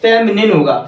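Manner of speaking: फेमिनिन said "fe-mi-nin" with a short final i; careful classroom model of फेमिनिन; correct pronunciation. Shown as a demonstration. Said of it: "इसका जो सही pronunciation होगा".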